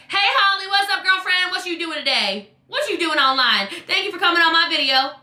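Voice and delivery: high, bubbly hello easing down; upbeat greeting. Shown as a demonstration. Coach dictating a message to a friend, upbeat. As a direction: greet a girlfriend brightly by voice text. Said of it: "I'd be like".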